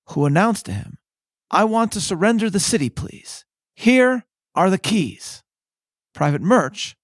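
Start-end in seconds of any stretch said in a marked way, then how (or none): 1.5-5.4 a hint of a formal, pleading mayor, higher; lightly voiced mayor handing over the keys; mayor offering surrender. Narrator voicing the mayor offering keys, lightly acted.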